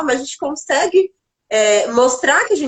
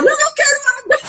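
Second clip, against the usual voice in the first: put-on higher, whiny teary little girl; crying child; much faster than usual. Mother retelling her fallen daughter now wanting water, teary and higher. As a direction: whimper it like a child changing her mind. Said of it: "a que caiu falou".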